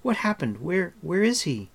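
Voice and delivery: alarmed questioning. A narrator's reading. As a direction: demand news in alarm. Startled patient demands news.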